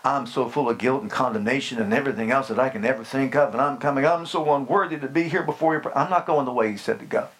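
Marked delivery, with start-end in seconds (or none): 0.0-5.9 quick, low, self-pitying mumble; a hint of a groveling believer; mock guilty prayer. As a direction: rattle off a guilt-laden prayer. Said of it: "if I walk up and just say".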